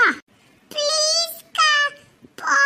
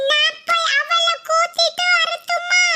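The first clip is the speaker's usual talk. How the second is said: put-on tearful little boy; 3 semitones higher, slower than usual. Little brother left behind, crying.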